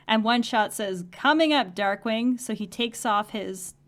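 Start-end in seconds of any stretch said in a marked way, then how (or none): 1.1-2.4 mock shout. Villain calls out to hero.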